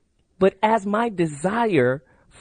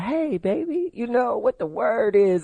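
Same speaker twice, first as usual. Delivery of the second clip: a lightly voiced smooth talker, higher; mock sweet-talk to a girl, pitched up; 5 semitones higher than usual. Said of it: "he real sweet with the girls".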